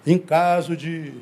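flight attendant. Retold or imitated. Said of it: "Você que já andou de avião".

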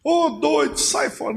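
high, dismissive jeer; a hint of a scoffing neighbour; mocking. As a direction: brush him off as a fool.

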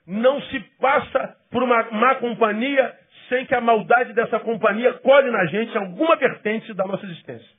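ordinary talk, nothing marked

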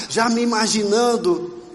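ordinary talk, nothing marked

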